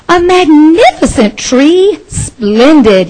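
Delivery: Mister Willoughby thrilled by his tree; excited cry. Acted. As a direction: burst out with joy at the tree. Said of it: "he cried".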